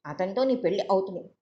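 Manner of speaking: calm, level promise with నీ leaned on; reassuring. Acted. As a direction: settle her fears firmly. Sister reassuring her. (భరోసాగా, నెమ్మదిగా)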